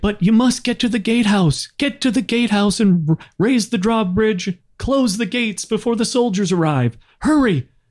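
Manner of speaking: shrill, very high yelled shout. Voicing a pinned-down man telling the players where to go, shouting in character. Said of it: "he shouts at you to stop".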